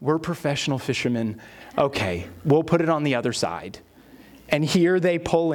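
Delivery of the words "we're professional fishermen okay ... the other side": low, grudging mock compliance; understated, resigned exasperation; eye-rolling reluctance. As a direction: give in to unwanted advice with a touch of disdain. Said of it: "rolling their eyes and going".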